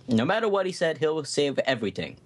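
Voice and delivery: a hint of a small toy hero voice; lightly voiced earnest little hero; Leo voice. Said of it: "really fun to do this voice".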